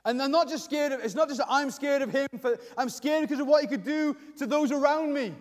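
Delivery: acted-out worry spilling out to God; touch of urgency, searching for words; emotional, worried prayer. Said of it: "he puts some emotion in his prayer".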